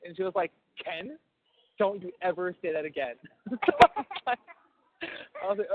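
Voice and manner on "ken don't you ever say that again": lilting Cajun mom scolding; Cajun mom impersonation. Retold or imitated. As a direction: imitate a Cajun mother's mild telling-off. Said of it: "your mom's accent is so, is so lovely".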